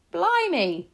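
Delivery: high, loud cockney astonishment; startled exclamation. A narrator's reading. Taxi driver spots a mouse in her hand, startled. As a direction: burst out in shock.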